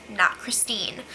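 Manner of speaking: breathy whisper, dropped low; whispered aside. Real, not acted. Whispered aside to viewers about the house. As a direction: let it slip as a secret.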